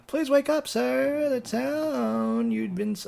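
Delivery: high, lilting ship's captain. Acted. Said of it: "Just this captain-y type voice".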